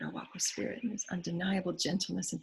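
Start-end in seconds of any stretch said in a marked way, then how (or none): 0.0-0.8 breathy whisper of the mantra; whispered affirmation. Acted. Speaker repeating the mantra, now whispered. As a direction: whisper it as a private vow.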